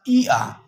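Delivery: ई gliding into आ; diphthong demo. Shown as a demonstration. Teacher sounding a diphthong for the class. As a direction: glide ई आ smoothly. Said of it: "ये कैसे अदा की जाती है?".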